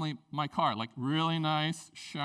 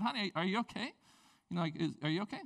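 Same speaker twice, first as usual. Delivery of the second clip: gentle concern; 4 dB quieter, faster than usual. Retold or imitated. Comforting wife on phone.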